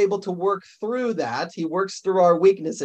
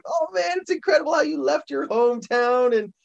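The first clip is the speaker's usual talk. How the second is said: high, gushing admiration; starstruck fan; 5 semitones higher than usual. Pretend. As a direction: gush like meeting a hero. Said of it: "and you say".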